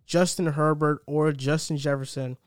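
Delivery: measured, emphatic host announcement; podcast intro read. Acted. Host welcomes listeners and lays out the episode, announcer-style intro. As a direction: punch each topic like a show rundown.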